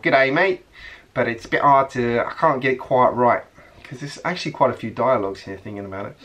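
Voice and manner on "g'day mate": a quick, half-nailed Australian "G'day, mate"; playful Australian accent try. Shown as a demonstration. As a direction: toss off a rough Australian greeting. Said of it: "I haven't got the Australian accent nailed yet".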